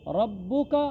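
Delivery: रब्बुका with a firm double b; "rab-buka", the b held; doubled consonant. Shown as a demonstration. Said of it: "बा पर शद है".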